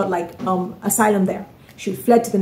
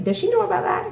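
incredulous; 12 semitones higher, 3 dB quieter than usual. Real, not acted. Incredulous question about Paul's words.

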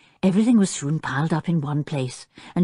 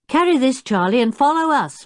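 high, brisk command; ordering; 7 semitones higher, 4 dB louder than usual. A narrator's reading. Jeremy directs the chimpanzee with the camping gear, commanding. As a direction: give the order to a helper. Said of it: "ordered Jeremy".

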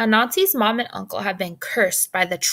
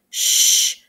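a sharp, breathy hush with no voice; shushing; 5 dB louder than usual. Acted. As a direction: hush them fast, dad is near. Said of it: "said another boy's voice".

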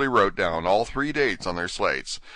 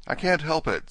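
meek; 9 semitones higher than usual. Acted. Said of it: "said Alice very meekly".

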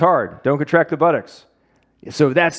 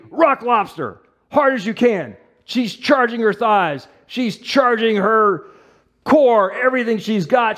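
higher, driving coach energy through the countdown; pumped-up coaching; 5 semitones higher, slower than usual. Real, not acted. Therapist coaching Sammy through a hard hold, excited. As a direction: push her through the hold, fired up.

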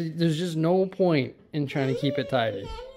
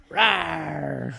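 playful dinosaur roar. Pretend. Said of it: "what does the dinosaur say".

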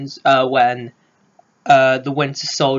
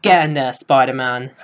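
excited cheer. Retold or imitated. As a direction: cheer him on like a goal. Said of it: "I was like".

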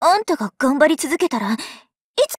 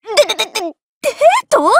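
flustered stammer; 4 semitones higher than usual. Acted.

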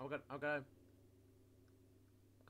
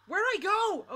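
terrified gibbering; 8 semitones higher, 5 dB louder, slower than usual. Real, not acted. Chased, panicking.

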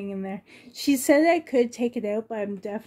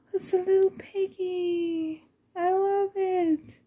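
happy tears; 7 semitones higher than usual. Real, not acted. Emotional over doll gift.

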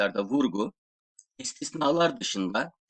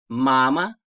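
"Mama" said loud with a rise; loud model word; 7 dB louder than usual. Shown as a demonstration. Teacher modelling a Russian word, loud. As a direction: call out "Mama" with the stress on the first ma. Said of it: "teacher modelling Russian words".

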